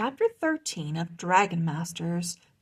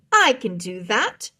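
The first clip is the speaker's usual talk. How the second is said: shaky voice; 7 dB louder than usual. A narrator's reading. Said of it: "her voice was shaking".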